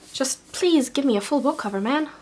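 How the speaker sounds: ordinary delivery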